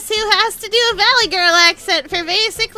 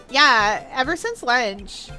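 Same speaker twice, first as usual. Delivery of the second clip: put-on Valley Girl accent; 2 semitones lower, slower than usual. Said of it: "do a Valley Girl accent".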